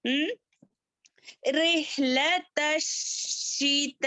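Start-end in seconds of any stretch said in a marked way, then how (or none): 1.5-4.1 slow रिहलत with a clear throaty ह; Quran recitation. Shown as a demonstration. Teacher models the throat letter ह, slow recitation. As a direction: draw out रिहलत शीत slowly. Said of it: "हा को अच्छे से करें।".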